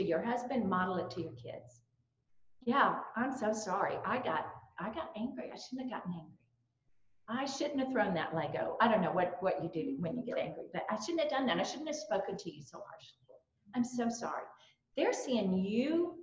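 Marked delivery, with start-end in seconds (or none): 2.6-14.4 sincere apology. Shown as a demonstration. Model apology to a child.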